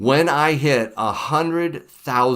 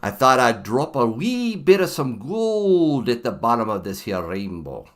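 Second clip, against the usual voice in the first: a hint of a bad Irish lilt; mock Irish, barely put on; half-hearted Irish accent for Saint Patrick's Day; lousy Irish accent. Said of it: "That's a lousy Irish accent".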